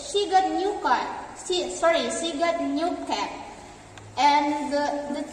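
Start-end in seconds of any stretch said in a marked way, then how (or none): 0.1-1.0 falling tune ending down on "car"; statement tune, falling at "car"; falling intonation. Shown as a demonstration. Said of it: "there are falling intonation, and the example is". 2.1-3.3 falling tune ending down on "cat"; statement tune, falling at "cat"; falling intonation. Shown as a demonstration. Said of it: "there are falling intonation, and the example is".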